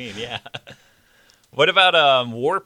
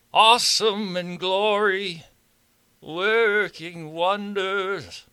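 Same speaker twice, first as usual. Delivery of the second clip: slow crooning rock star; lightly voiced rock-star croon; impression of a singer; 4 semitones higher, much slower than usual. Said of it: "I wanna do David Bowie".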